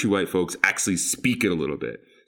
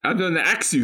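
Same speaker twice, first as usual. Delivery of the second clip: mock imitation; 11 semitones higher, 3 dB louder than usual. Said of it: "father-in-law quoted".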